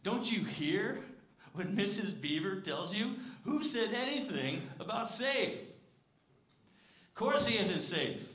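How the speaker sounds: high, loud and slow, almost shouting; incredulous beaver lecturing a child, loud, high, slow; Mister Beaver exclaiming. Acted. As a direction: hammer it home, loud and drawn out. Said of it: "said Mister Beaver".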